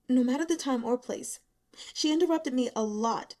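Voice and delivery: lightly voiced young woman, bitter and self-pitying; a hint of a worn-out student, bitter. Young woman unloading her misery on the investigators, bitter. Long bitter account of caring.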